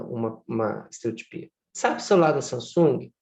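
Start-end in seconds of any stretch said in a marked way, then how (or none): 1.7-3.1 like a scratched record, identical every time; stereotyped repetition. Shown as a demonstration. Teacher demonstrating a stereotypy to students, repeating it mechanically. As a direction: repeat it with the same tune each time. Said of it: "eu até fiz uma estereotipia".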